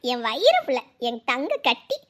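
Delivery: soft, adoring grandmotherly cooing; doting coo. Acted. Grandmother admiring the sleeping child, doting coo. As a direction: coo slowly over the little ones.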